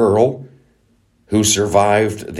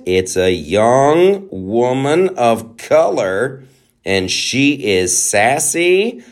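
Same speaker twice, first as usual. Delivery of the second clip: sassy announcement; 3 semitones higher, much slower than usual. Acted. Introducing the sassy Inquisitor.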